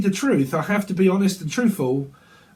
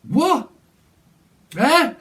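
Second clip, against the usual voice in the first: high, louder disbelief; incredulous what; 10 semitones higher, 4 dB louder than usual. Retold or imitated. Reader playing the partner hearing a strange excuse, high and incredulous. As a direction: squeak out a stunned what.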